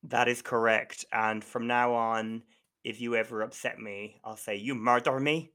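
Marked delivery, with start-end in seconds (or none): 4.6-5.5 mock-dramatic Scottish accent slipping toward Dublin; attempted Scottish accent. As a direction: imitate a Scottish accusation, landing nearer Dublin. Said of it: "probably more like a Dublin accent".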